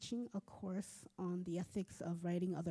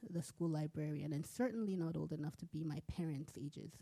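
steady literary reading, characters lightly voiced; story reading. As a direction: read the chapter aloud to listeners. Author reads her novel aloud.

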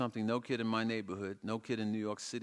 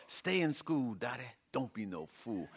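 southern holler; 2 semitones higher than usual. Acted. Dottie imitating a singer with a southern accent holler. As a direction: holler it like a southern soul star. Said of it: "holler in a southern accent".

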